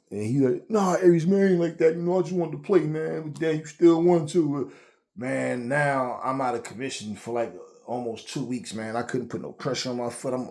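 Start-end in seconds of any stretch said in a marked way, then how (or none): 0.7-4.5 higher-pitched pleading mock of a friend; backpedaling friend. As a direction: imitate a friend backing down, voice lifted. Retold friend backing down.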